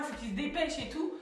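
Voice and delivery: high, hurried mock urging; retold impatience. Helper urging hospital staff to hurry, retold impatience. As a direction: urge them on quickly, lightly exasperated.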